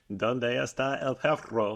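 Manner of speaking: slow, careful Spanish accent, showing off. Shown as a demonstration. Asked for her best accent, a slow Spanish line. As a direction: roll the r in "perro" in a Spanish accent. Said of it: "give me your best accent".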